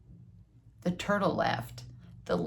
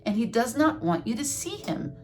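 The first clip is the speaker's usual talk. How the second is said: higher, lilting storybook voice; lightly voiced frog, pitched up; explaining Frog; 5 semitones higher than usual. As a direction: explain it in a high singsong.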